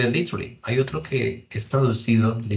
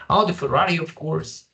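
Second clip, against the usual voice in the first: pleased choice; 6 semitones higher than usual. Pretend. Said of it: "So you say".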